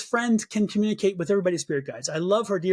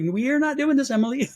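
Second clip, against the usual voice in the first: louder, higher mock scold; firm no-nonsense telling-off; scolding the spirit guide Emily; 6 semitones higher, 4 dB louder than usual.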